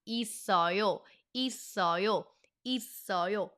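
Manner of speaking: "있어요" run together as i-sseo-yo; "있어요" in one smooth connected flow; said fast, linked. Shown as a demonstration. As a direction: link the ss of "있어요" into the next syllable. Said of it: "if you say it fast".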